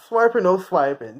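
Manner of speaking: half-laughed cartoon line; laughing quote. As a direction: giggle through the cartoon catchphrase. Quoting cartoon while laughing.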